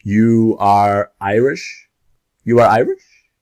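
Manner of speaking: "You are Irish?" said as a statement that rises at the end, the first take slow; question by rising tune. Shown as a demonstration. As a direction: lift the voice on "Irish" to make it a question. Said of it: "You just change the intonation".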